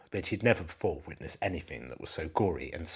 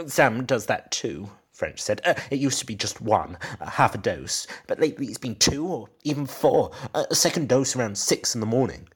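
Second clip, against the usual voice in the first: nervous husband; 7 semitones higher, 5 dB louder than usual. Acted. Nervous husband explaining to detective.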